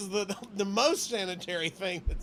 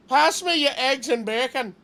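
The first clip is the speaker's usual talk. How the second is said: loud hammed-up Jamaican accent, louder; mock Jamaican accent; 6 dB louder than usual. Joking with a co-host, he shouts for bacon in a mock Jamaican accent. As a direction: bellow it like a mock island cook, Jamaican accent. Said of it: "saying bacon in Jamaican".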